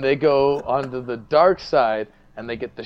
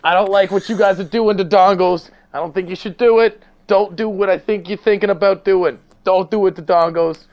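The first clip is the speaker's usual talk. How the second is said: raised, loud stern chief voice; gruff police chief; 6 semitones higher, 6 dB louder than usual. Acted. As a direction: play the angry chief warning them off. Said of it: "Starring Denis Leary as the Dirty Chief".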